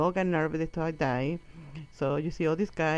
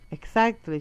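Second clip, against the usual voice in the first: loud, high, emphatic agreement; emphatic exactly; 5 semitones higher, 5 dB louder than usual. Retold or imitated. Mother to son, loudly agreeing with his point. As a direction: punch it out triumphantly. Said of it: "she said".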